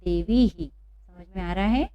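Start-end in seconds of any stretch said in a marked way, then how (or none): 0.0-0.7 "देवी ही" joined, visarga sounded as ही; visarga demonstration. Shown as a demonstration. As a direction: repeat "देवी ही" for learners. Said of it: "क्या पढ़ेंगे?".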